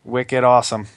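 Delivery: Boston slang, dropped r, wicked awesome; Boston accent. Shown as a demonstration. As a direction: play the Bostonian. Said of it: "is that your new line".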